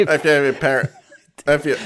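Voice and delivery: high parroting echo with a laugh; parrot mimicry. Co-host interrupting the presenter, laughing parrot mimicry. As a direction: squawk it back teasingly like a parrot. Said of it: "Now you sound like a parrot".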